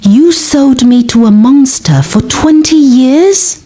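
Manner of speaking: angry disbelief, voice lifting. Acted. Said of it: "Louder now".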